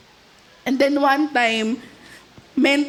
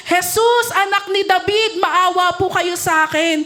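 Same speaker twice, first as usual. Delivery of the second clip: mild mock shout of a blind beggar; retold cry for mercy; 2 semitones higher than usual. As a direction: call out to Jesus for mercy. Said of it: "So sumigaw siya".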